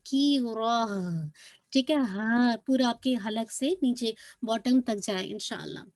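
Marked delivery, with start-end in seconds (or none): 0.1-0.9 की रॉ ending in an audible h; stop on haa. Shown as a demonstration. Teacher shows ta marbuta turning to h, recited stop. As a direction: finish की रॉ on a breath of h. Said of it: "हा में convert हो जाती है".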